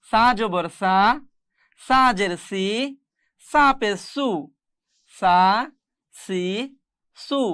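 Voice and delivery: সা, সি, সু with the consonant softened; soft tha sound. Shown as a demonstration. Teacher drilling students on the letter, soft consonant in সা, সি, সু. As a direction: say সা, সি, সু gently, without a hard s. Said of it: "সাটাকে নরম করে পড়তে হবে".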